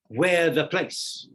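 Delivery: each syllable drawn out and spaced; slow quoted line. Shown as a demonstration. Teacher reading a short line to his class, slowly.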